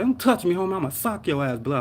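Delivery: heated warning that starts high; retold mad threat. Patient fighting off paramedic, mad warning. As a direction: back them off, a touch of anger. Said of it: "I was, like, mad".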